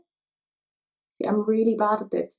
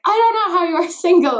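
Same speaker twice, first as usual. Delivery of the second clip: higher, louder incredulous friend; friend's voice; 10 semitones higher, 8 dB louder than usual. Retold or imitated. Imitating her friend over Chinese, higher amazed voice. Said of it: "she was like".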